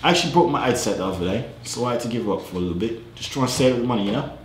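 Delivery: put-on casual British chat accent. Telling a stranger he's from the UK, put-on British accent. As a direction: pass yourself off as British. Poses as a Brit online.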